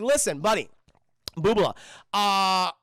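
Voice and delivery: lightly hammed-up loud schmoozer; coked-up smooth talker. Hostage buttering up John over the radio, loudly chummy. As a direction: play a cocky, over-familiar dealmaker. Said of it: "he's on so much cocaine".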